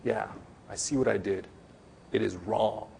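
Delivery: sincere repentance. Acted. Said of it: "Repentance means".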